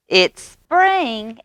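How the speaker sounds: high loud call; frog shout. A narrator's reading. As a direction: announce it to the woods. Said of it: "he shouted".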